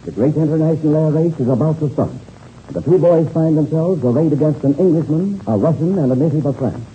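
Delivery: rousing radio serial narration; old-time radio announcer voice. A narrator's reading. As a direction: hook them for the next episode. Narrator closes the episode.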